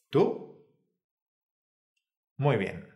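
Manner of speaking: usual speaking voice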